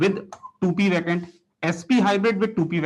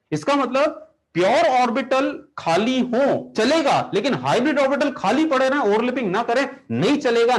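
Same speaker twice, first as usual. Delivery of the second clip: mock scolding; 5 semitones higher than usual. Teacher scolding the orbital.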